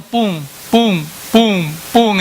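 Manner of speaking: pounding heartbeat, spoken as separate thumps; evenly spaced spoken heartbeats; imitated heartbeat. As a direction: thump out a heart beating in the chest. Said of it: "nuestro corazón nos está haciendo".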